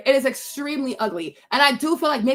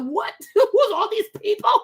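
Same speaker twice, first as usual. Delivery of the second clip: high surprised laugh; overwhelmed surprise; 9 semitones higher than usual. Retold or imitated. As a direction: laugh out the shock. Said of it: "He's like".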